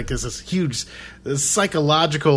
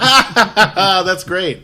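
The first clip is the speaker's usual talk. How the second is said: mock laughing crowd; 7 semitones higher, 8 dB louder than usual. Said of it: "And everybody's like".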